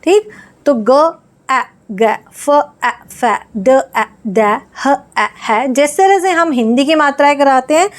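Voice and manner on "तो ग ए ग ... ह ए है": ग, ए, ग and फ, ए, ड sounded piece by piece; sounding out. Shown as a demonstration. Teacher sounds out consonant-vowel words for children. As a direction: build each word letter by letter. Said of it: "एक तो मात्रा है और एक वर्ण है".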